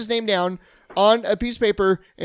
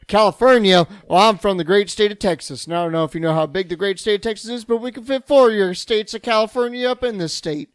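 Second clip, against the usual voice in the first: proud, brash Texan bragging, rising to a louder finish; boastful Texan; 4 semitones higher, 4 dB louder than usual. Retold or imitated. Talking down a scam caller as a boastful Texan. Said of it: "And I go".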